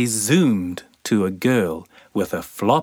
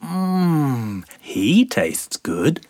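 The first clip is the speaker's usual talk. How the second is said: sandfly voice; 4 semitones higher, slower than usual. Acted. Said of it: "said Sandy".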